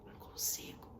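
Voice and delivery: mock whisper. Preacher imitates a hopeless person, whispering. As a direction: barely breathe the words. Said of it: "Vou falar até baixinho".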